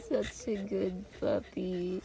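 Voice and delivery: slow tender praise. Real, not acted. Praising the dog.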